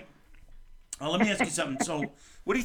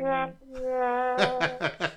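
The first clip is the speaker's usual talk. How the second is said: imitated trombone noise; 8 semitones higher than usual.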